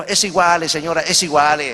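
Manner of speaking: lightly put-on Italian accent in Spanish. Italian passenger brushing off the freezing lady, light Italian accent. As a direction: mix a hint of Italian accent into it. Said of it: "en su mezcla de italiano".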